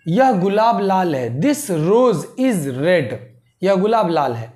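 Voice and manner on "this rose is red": very slow, word by word; dictating pace, each word apart; slow dictation. Shown as a demonstration. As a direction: spell it out slowly for students. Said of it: "teacher dictating slowly".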